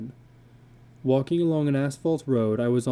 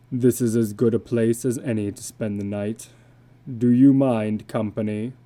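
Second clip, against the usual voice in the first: lightly voiced weary drifter, a bit lower; a tired, heavy stranger asking to stay; a hint of a low, worn-out wanderer; illustrated man; 3 semitones lower, 4 dB louder than usual.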